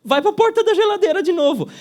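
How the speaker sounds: excited. Acted. Punchline of the fridge joke.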